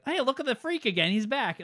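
high, loud imitation of jeering reindeer; mock jeering. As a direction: jeer like a taunting crowd, hammed up. Reindeer jeering at returning Rudolph.

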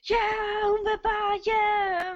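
high, slow, cheering crowd voice; jubilant cheer. Retold or imitated. Crowd cheering for the tired hero, jubilant and high. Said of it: "udbrød i jubel".

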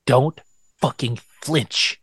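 slow, ending in a whisper; urgent self-warning, hushed at the end; mock inner panic. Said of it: "mock inner warning to himself".

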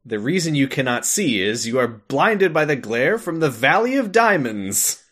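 quacky cartoon duck voice; Donald Duck voice. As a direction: squawk it out like Donald. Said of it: "that I can say in Donald Duck voice".

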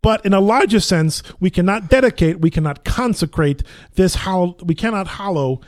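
loud Brooklyn recitation; Brooklyn accent. Shown as a demonstration. Actor test-reading the Gettysburg Address, Brooklyn accent. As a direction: proclaim it in an attempted Brooklyn accent. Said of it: "a Brooklyn accent".

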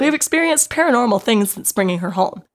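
hiccuping between words; reading through hiccups. Real, not acted. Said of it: "I have the hiccups".

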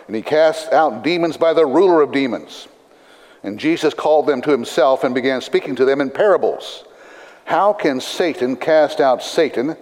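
measured, deliberate Bible reading; scripture reading. Acted. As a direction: read scripture aloud to a congregation. Reads scripture aloud to congregation.

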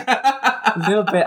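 put-on French accent. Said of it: "I'm slipping a little bit into French here".

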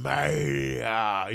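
drawn-out announcer roar, stretched syllables; Vince McMahon. Retold or imitated. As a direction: imitate a wrestling promoter's big show-opening cry. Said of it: "Vince did his old".

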